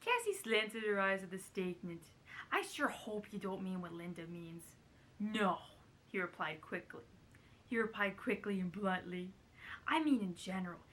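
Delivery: lightly put-on celebrity narration; a hint of impression in the story reading; Carol Channing. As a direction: keep up a shaky comic impression while reading. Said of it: "I think this is really bad so far".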